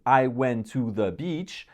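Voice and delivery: measured, deliberate model sentence at a slow pace; slow example sentence. Shown as a demonstration. Speaker giving learners an example with context, slow and deliberate. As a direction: spell it out slowly, word by word.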